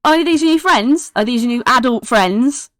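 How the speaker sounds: high-pitched, eager questioning; excitable kid. Acted. Kid asks Archie about her new friends, high and eager.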